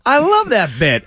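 high, gushing retold praise; excited fan. Comic plays his attacker suddenly a fan, high and excited.

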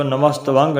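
ਨਮਸਤਵੰਗ with a full vaang at the end; wrong hard-g ending. Shown as a demonstration. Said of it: "ਨਹੀਂ ਬੋਲਣਾ ਪਾਠ".

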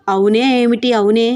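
echoing "అవునే" back in mild teasing disbelief, rising on "ఏమిటి"; mock echo. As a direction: throw his "అవునే" back at him, lightly laughing. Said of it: "చిన్ని నవ్వుతూ".

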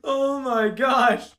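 slow, drawn-out amazement; awed oh my gosh, stretched out slow; amazed. Real, not acted. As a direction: savor the shock. Amazed after laughing fit.

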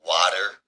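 "water" ending on a sounded R; pronounced R in "water". Shown as a demonstration. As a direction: hit the R at the end of "water". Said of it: "I don't say water".

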